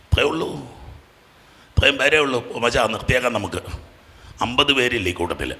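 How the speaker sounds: very soft, low aside; subdued. Real, not acted. Preacher disappointed at how few hands went up, subdued. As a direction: drop right down, as if ready to give up. Drops out of preaching into quiet remark.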